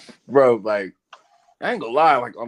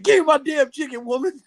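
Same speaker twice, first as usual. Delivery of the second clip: angry yell; 11 semitones higher than usual. Retold or imitated. Man on the train yelling at his wife for chicken. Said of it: "he said".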